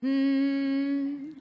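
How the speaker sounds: humming, tongue sticking out; hum with tongue out. Shown as a demonstration. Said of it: "alternate between mm and".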